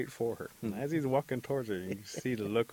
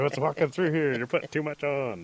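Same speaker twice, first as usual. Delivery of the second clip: disgusted mock reaction; 6 semitones higher, 9 dB louder than usual. Mocking cologne wearers.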